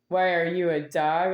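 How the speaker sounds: a touch of tense anger; said angry. Retold or imitated. Mildly angry question that made the dog cringe. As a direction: put a tense edge on the question. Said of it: "the dog sort of cringed a little when I said".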